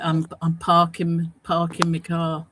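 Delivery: light Cockney, dropped-g parking; Cockney accent. Acted. Englishman showing how Cockneys talk, light Cockney accent. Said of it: "if you're Cockney, you'd like".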